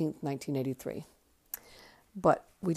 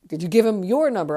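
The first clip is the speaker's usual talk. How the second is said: higher and louder eager question; imitated eager aunt; 5 semitones higher, 11 dB louder than usual. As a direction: quiz her like a thrilled aunt. Aunt eagerly quizzing her.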